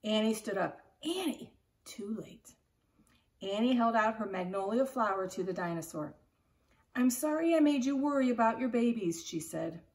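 put-on lively read-aloud narration for kids; expressive picture-book reading to children; story reading. A narrator's reading. Teacher reads chapter book aloud.

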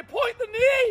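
loud, high shouted command. Shown as a demonstration. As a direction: call it out to the whole class. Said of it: "Let's get even louder".

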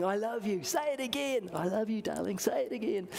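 playful father-daughter volley, pitch hopping up on each reply; two voices trading affection; back-and-forth exchange. Acted. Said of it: "backwards and forwards they went".

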